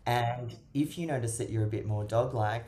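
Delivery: ordinary talk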